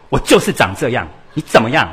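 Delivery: loud defiant outburst; table-slamming retort. Acted. A mother slams the table and loudly snaps at her child. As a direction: snap back, losing your temper. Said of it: "他的妈妈就拍桌子说".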